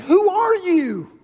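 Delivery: high, slow, loud call upward; crying out. Retold or imitated. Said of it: "he cried up into the heavens and said".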